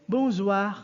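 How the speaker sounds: teacher models the evening greeting for the class; French bonsoir. Shown as a demonstration. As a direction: say "bonsoir" the French way, three times. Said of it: "you say".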